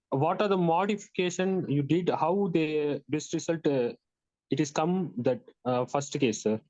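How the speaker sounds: slow down a bit for the listener; measured, halting re-ask on request. Real, not acted. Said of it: "a little bit slowly".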